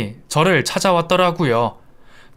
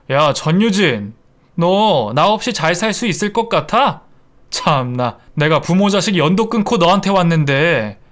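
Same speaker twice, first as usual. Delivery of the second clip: angry; 3 semitones higher than usual. Acted. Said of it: "큰 소리로 막 화를 내는 겁니다".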